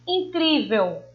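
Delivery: incrível with CRÍ drawn out and falling after; in-CRÍ-vel, the middle syllable leaned on; stress on the middle syllable. Shown as a demonstration. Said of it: "O cri a gente pronuncia com mais intensidade".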